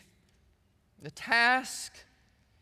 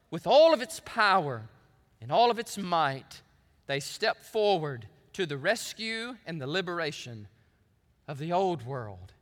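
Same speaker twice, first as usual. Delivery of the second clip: Churchill speech, subsiding; 2 semitones lower than usual. Acted. Preacher closing Churchill's appeal to the new world, subsiding oratory. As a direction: let the speech settle solemnly, phrase by phrase. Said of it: "End of quote".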